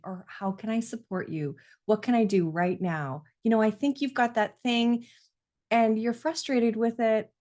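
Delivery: put-on gentle, calm words to a frustrated child; supportive parent voice. Shown as a demonstration. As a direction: soothe and offer help. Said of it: "I can help say".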